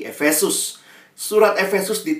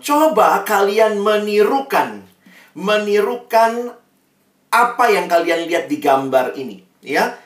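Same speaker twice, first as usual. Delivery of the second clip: coaxing teacher; 4 semitones higher, 4 dB louder than usual. Retold or imitated. Preacher quotes himself instructing students.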